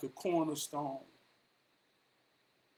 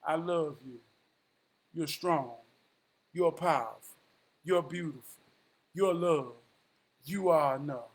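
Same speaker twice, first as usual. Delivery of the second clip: affirmation; 2 semitones lower than usual. Shown as a demonstration. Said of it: "tell yourself every morning".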